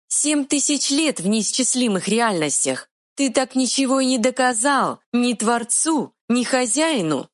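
high, quick fairy voice; tiny fairy retort. Acted. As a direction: snap back like a tiny fairy. Fairy speaks.

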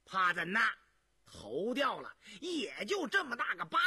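hammed-up brash outburst; yelling. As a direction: shout it out recklessly. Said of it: "嚷道".

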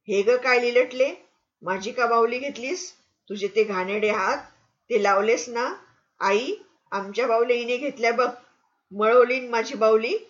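put-on loud indignant girl yelling; shouting. Hiri yells at Lili over her doll, indignant. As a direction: yell at her for touching the doll. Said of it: "हिरी ओरडून म्हणाली".

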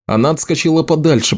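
plain reading voice

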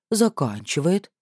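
slow, mocking repeat; aunt sarcastically echoing the suitor; caustic echo. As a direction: drag the word out with venom. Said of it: "едко добавила".

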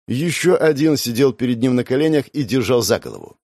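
ordinary talk, nothing marked

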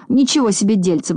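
mild exclamation of surprise; understated acted astonishment; exclaiming. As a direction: exclaim with a touch of disbelief. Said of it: "воскликнул Пончик".

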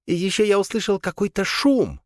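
very high squeaky creature. A narrator's reading. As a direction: chirp it like a small beast. Squeaky son Krisp speaks.

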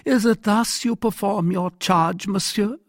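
high-pitched, indignant monarch; reproachful king. Acted. King rebuking his captain over his charge, reproachful.

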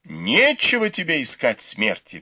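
ordinary delivery, nothing marked

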